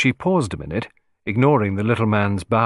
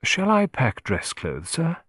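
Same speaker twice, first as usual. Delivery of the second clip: apologetic; 6 semitones higher, slower than usual. Acted. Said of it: "George's voice broke apologetically".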